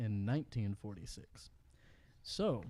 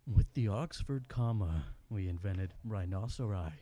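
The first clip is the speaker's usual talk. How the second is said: low narrator read; hushed nature documentary; 3 semitones lower than usual. Pretend. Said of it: "Let me read this in my narrator voice".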